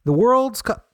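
mock-fancy, high and loud; loud, fancy pronouncement; said fancily. Shown as a demonstration. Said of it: "I say it fancily".

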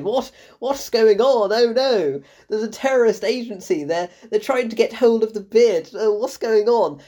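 lightly mocked stereotypical British accent; hammy, fretful British accent impression; Lupita Nyong'o. Critic mocking an actress's worst British accent ever, exaggerated British. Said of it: "Lupita Nyong'o's British accent".

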